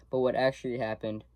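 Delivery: talking with hair in mouth. Real, not acted. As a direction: speak round a strand of hair. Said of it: "sorry, I got hair in my mouth".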